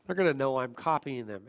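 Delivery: low inner-doubt voice; little inner voice. Acted. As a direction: voice a private worry, pitched low. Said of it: "that little voice just went".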